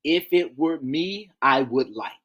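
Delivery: slow, deliberate delivery of the key phrase; spelling out the magic phrase; slow demo phrase. Shown as a demonstration. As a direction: lay the phrase down slowly, word by word. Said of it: "That's it".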